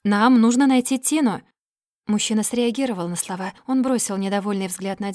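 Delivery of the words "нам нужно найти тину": urgent insistence. A narrator's reading.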